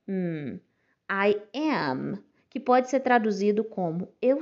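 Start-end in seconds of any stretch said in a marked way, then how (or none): 0.1-0.6 soft closed-lip "hum"; hum sound. Shown as a demonstration. Teacher demonstrates the hum at the end of "am". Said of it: "sonzinho de hum".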